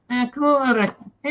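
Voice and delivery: slow, drawn-out Glaswegian imitation; wee Glasgow voice. Reading a chatter's message, put-on Glaswegian voice. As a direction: put on a Glaswegian accent, stretching the words. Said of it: "I'll do my wee Glasgow voice".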